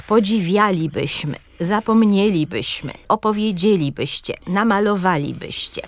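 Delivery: podziWIAlibyśmy, zapoMNIElibyśmy, opowieDZIElibyście, namaloWAlibyście; stress on fourth-last syllable. Shown as a demonstration. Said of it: "na czwartej sylabie akcent".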